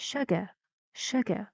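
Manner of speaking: "Sugar" stressed on SU, falling after; isolated "Sugar" with a short fall; first-syllable stress. Shown as a demonstration. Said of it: "Where's the stressed syllable?".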